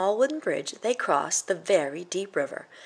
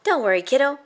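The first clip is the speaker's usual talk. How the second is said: much higher and louder goat call; called out cheerfully; 8 semitones higher, 6 dB louder, faster than usual. Acted. Billy Bo calling out to Jack, high and loud. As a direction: reassure the kid from across the water. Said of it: "called out Billy Bo".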